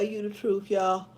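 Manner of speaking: talking through a yawn. Real, not acted. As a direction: yawn while speaking. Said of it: "I'm sorry I'm yawning".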